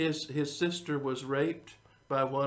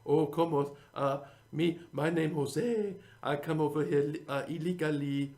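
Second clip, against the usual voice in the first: mock Mexican accent. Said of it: "how do I do my Mexican".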